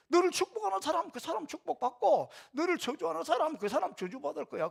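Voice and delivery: proclaimed high; God's promise. Acted. Preacher voicing God's vow, high and proclaiming. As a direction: ring out the promise.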